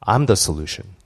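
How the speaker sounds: low, gentle voice of God; lightly voiced God speaking inwardly; Holy Spirit's voice. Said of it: "It's like".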